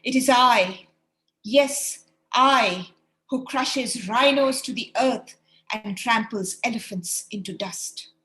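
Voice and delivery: loud, booming bragging voice; booming boast. Acted. Caterpillar boasts from inside the house, loud and booming. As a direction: boom it out like a giant. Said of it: "boomed out in a loud voice".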